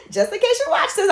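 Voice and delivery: giggling through the words; laughing. Real, not acted. Daughter laughing while teasing her mom about watching, laughing. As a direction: laugh it out, a little sheepish.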